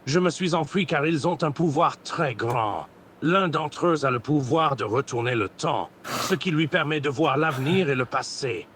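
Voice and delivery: lightly put-on Goku Black voice; villain roleplay voice. Voice chat roleplayer playing Goku Black, lightly voiced villain. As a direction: grandiose villain speech, held steady. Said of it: "un truc dans la gorge".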